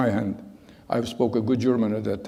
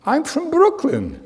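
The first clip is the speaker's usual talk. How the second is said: lightly voiced officer; 13 semitones higher than usual. Officer answers with a laugh.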